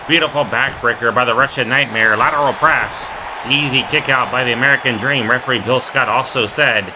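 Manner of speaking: quick, punchy wrestling commentary; live play-by-play. Real, not acted. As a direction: call each move as it happens.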